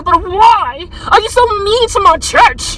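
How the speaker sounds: slow, put-on voice of God; lightly voiced, drawn-out divine complaint; a hint of a wounded God; mock God voice. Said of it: "God is gonna be like".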